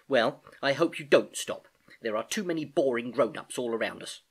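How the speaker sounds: fond niece. Acted. Niece reassures her uncle.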